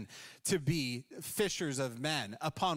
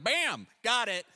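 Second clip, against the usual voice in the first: higher, louder and slower triumphant burst; wife's quick triumph; 7 semitones higher, 7 dB louder than usual. Retold or imitated. Wife finishing her first to-do item, loud triumphant mock. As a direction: punch it like ticking off a task. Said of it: "So instantly she's like".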